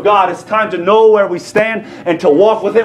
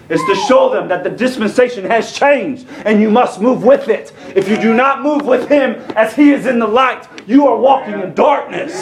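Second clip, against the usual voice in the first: raised, emphatic preacher's delivery; impassioned preaching; 5 semitones higher than usual. Real, not acted. Preacher urging the congregation to move with the Word, impassioned. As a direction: press the point with rising pitch.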